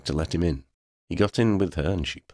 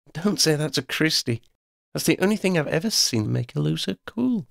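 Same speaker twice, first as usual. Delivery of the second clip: much higher-voiced companion; Shona, chatty warning; 11 semitones higher than usual. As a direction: pitch it up for Shona's teasing caution.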